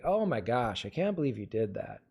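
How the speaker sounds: quick, low and identical to the last take; pre-structured reading. Shown as a demonstration. Actor stuck on one delivery in take three, rote. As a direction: recite it by rote, falling at the end. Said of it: "That's what we call pre-structuring".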